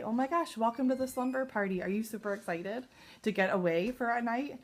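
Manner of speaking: bright, lifted gush of welcome; excited greeting demo. Shown as a demonstration. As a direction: sound delighted to see her. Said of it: "Or you could say".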